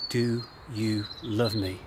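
"Do you love me?" asked slowly and gently, each word drawn out; slow, soft and tender. Acted. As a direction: let the question fall quietly, drawn out and tender. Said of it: "Jesus says for a third time".

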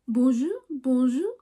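whispered hammed-up French greeting; whispered mock French accent to viewers. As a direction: breathe it like a playful fake Parisian. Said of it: "Guys, you like my French?".

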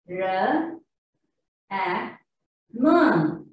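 R and M said as "ruh, muh"; spaced letter sounds, schwa on R and M; wrong letter sounds. Shown as a demonstration. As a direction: sound out R, A, M with "uh" after each consonant. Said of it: "I mean the wrong sound".

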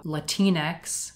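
Latinx as "la-TEE-nex", stressed in the middle; Latinx said like Latina. Shown as a demonstration. Presenter demonstrates the dictionary's way, Latinx as "la-TEE-nex". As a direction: say Latinx to rhyme with Kleenex, slowly. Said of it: "you pronounce it the same way you would pronounce Latina".

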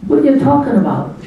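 high, loud mock-innocent student; feigned innocence. Student denies knowing about the tush, mock innocent. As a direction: play the innocent kid.

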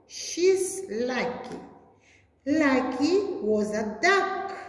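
put-on lively storybook reading for young pupils; bright classroom story time; reading to children. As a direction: read it like a teacher showing a picture book. Teacher reads picture book aloud.

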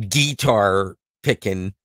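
slow, drawn-out Southern guitar picking; Southern drawl. Retold or imitated. Joking about Nashville, drawls guitar picking slowly in a Southern accent. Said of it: "thought everybody in Nashville was just basically a bunch of country singing".

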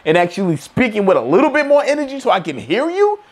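confrontational retort; mild mock confrontation; calling him out. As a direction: call him out, a little over the top. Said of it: "it's like".

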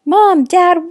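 high, loud shout for parents; loud calling out. Acted. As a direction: call out sharply, pitch way up. Yelled call echoed in dialogue.

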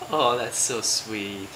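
low, slow, soft aww; sympathetic aww. Real, not acted. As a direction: melt into a tender, drawn-out aww. Mother melting at baby's love.

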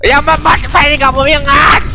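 real shout at the villain; shouting at character. Real, not acted. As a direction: yell a warning at the screen. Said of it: "แต่ผมขึ้นเสียงกับตัวละคร". (ตะโกนใส่ตัวละคร)

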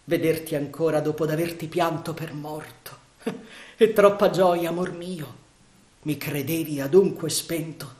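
put-on a young lady overjoyed to see him alive; joyful young lady.

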